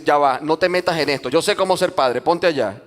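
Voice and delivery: mock-indignant dismissal; bossy brush-off. Parent telling the Holy Spirit to stay out, dismissive. Acts out pushing the Spirit aside.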